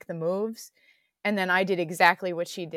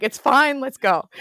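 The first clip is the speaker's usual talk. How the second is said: brisk reassurance; 6 semitones higher, 9 dB louder than usual. Retold or imitated. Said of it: "She's like".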